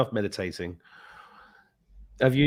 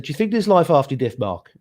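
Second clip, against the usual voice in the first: higher, louder mock friend asking; imitating mum's friend; 5 semitones higher, 7 dB louder than usual. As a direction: voice the friend's eager question. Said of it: "and she said".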